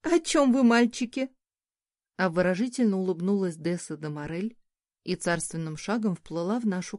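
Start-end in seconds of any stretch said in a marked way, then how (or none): 0.0-1.3 flirty woman voice. A narrator's reading. Dessa enters, flirtatious woman.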